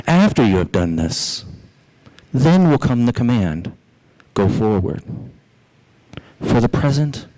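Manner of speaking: measured, declamatory reading with long pauses; sermon reading. Acted. Pastor reading a late Baptist minister's sermon to the congregation, solemn and measured. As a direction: read old preaching aloud, solemnly and deliberately. Reads Spurgeon's old sermon aloud.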